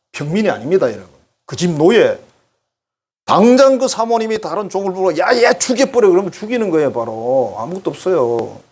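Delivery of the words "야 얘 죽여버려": high, loud barked command; the mistress ordering a servant to kill him; mock angry order. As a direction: order the killing in a raised voice.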